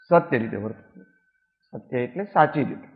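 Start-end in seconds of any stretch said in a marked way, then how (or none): none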